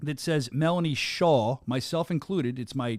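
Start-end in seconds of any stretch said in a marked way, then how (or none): 0.5-1.6 SHAW said with a rounded "aw" vowel; American mispronunciation. Shown as a demonstration. Host owning up to Americans misnaming the guest, mispronounced SHAW. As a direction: say "Shaw" the American way, rhyming with "law". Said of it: "horrible accent".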